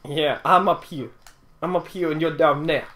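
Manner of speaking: light mock Canadian accent. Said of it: "That was my Canadian accent".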